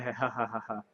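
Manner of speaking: soft giggling ha ha ha; real laugh. Real, not acted. Prankster laughs about forgetting the prank sign rule.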